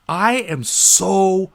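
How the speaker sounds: imitating a pushy positivity preacher; mock overly positive voice. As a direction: ham up a relentlessly upbeat cashier. Parodying the relentlessly positive cashier.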